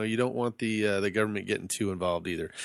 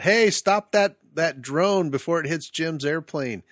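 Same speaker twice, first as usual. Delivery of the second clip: mock shout across a parking lot, high and loud at the start; retold yell; 6 semitones higher, 3 dB louder, slower than usual. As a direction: call out in alarm, then ease off. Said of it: "I yelled out from across the parking lot".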